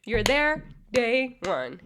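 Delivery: loud, high mimicry, easing down; exaggerated high-pitched mockery. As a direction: imitate her in a high, drawn-out taunt. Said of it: "become all high pitched".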